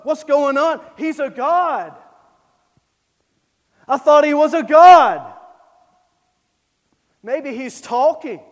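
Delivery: loud, jeering Elijah taunting false prophets; mocking taunt. Elijah mocking the prophets of Baal, in a loud jeering voice. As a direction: taunt them like a schoolyard bully. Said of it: "mocked them".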